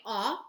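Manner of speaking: ah, the short O as in mop; short O sound. Shown as a demonstration. Teacher modelling the short O sound. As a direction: say ah with an open mouth. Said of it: "which is its short sound".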